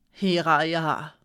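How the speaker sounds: slow, syllable by syllable, with contempt; sounding out words. A narrator's reading. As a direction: spell out the name with scorn. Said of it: "Sie sprach den Namen langsam aus, Silbe für Silbe, verächtlich".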